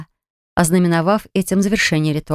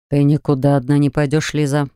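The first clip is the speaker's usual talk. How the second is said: growled; 4 semitones lower than usual. Acted. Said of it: "Он прорычал".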